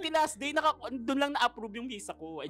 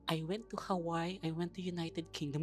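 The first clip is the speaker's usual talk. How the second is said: imitating her voice; 7 dB quieter than usual. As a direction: softly mimic the officer's boast. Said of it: "Ganun yung boses niya".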